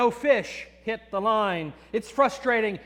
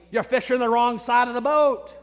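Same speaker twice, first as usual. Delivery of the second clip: mock yell; 2 semitones higher, 5 dB louder than usual. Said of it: "Dad would yell at me".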